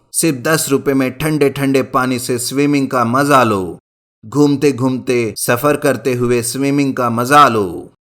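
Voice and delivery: loud fairground barker calling customers; hawker's cry, loudest at the start, then steady; calling out loudly. Acted. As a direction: shout the offer to the crowd at the fair. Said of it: "Pramod जोर जोर से पुकारने लगता है".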